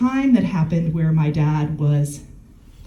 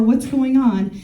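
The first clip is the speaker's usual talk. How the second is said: high, bright sing-song greeting; mock cheerful dad; 7 semitones higher, slower than usual. Imitating the dad calling, sweet and high. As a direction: pitch way up, playing the friendly caller.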